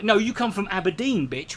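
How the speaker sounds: put-on Aberdeen accent. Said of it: "Aberdeen accent".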